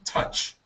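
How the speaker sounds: touch said softly as tuhch; touch demo. Shown as a demonstration. Teacher models touch again for the student, short u. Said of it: "So one more time".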